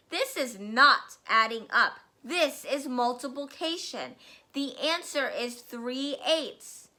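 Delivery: loud, booming tyrant rant; raging headmistress. Acted. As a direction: roar it at the terrified boy. Trunchbull rages at the pupil.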